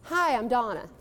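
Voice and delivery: open, self-assured hello at full voice; confident greeting. Shown as a demonstration. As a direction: introduce yourself like you own the room. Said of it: "Isn't that a more powerful way to do it?".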